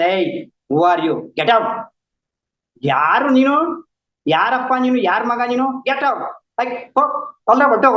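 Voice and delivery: a hint of an arrogant king; dismissive brush-off. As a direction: shoo the stranger away, mock arrogant. Son rudely dismisses his father.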